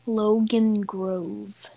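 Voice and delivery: slow and drawn out. Real, not acted. Repeats name when asked who.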